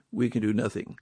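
a hushed repeat that lets it land; quiet echo. Shown as a demonstration. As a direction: let the repeat drop away quietly. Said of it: "friends, let's face it".

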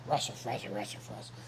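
a low, soft hint of the cartoon Muzzy calling Russell. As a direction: lightly voice the cartoon monster calling a name. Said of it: "Remembers Muzzy from the cartoons".

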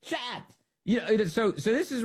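squeaky hushed shut up; mocking Pelosi squeak; Pelosi impression. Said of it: "Nancy Pelosi's version".

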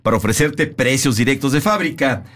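measured announcer delivery with punched key words; radio ad read. Real, not acted. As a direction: sell it like a sponsor spot. Reads the scripted furniture ad.

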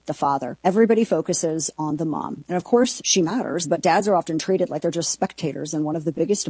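smooth, even sponsor read delivered by the host; host-read radio ad. Acted. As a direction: sell it gently and sincerely, like a live radio spot.

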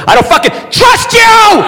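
high, slow yell of distrust; shouting at a spouse through the lock; sudden shout. Pretend. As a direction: blurt it out at full volume.

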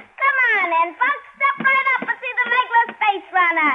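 a touch of a carnival barker; sideshow barker. Acted. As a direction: drum up the crowd at a freak show. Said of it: "you're faking it".

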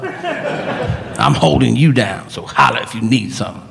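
a pandering show of street solidarity; Steven Seagal. Acted. Seagal to Black people he panders to, put-on pandering voice.

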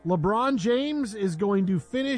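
slow, measured announcer delivery; radio tease. Acted. Host teasing LeBron news before the break, slow announcer tease. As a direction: tease the next segment, drawing it out.

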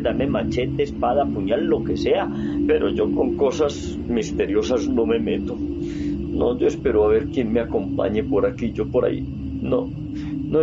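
a braggart turning scared, whispered noes between; boast, then back out in fear; frightened villager. Acted. Villager facing the cemetery at night, bragging then frightened.

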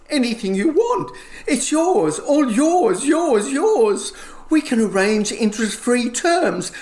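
fawning salesman. Acted. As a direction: gush over the customer like a desperate shop manager. Manager's sales pitch voice.

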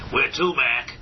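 cabbie voice. Retold or imitated. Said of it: "kept saying in my head".

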